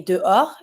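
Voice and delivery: DEHORS with a mute H and no final S; silent H. Shown as a demonstration. Teacher showing how to say outside, "dehors" with mute H. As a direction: leave the H and S of "dehors" unsounded. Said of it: "The H is always mute".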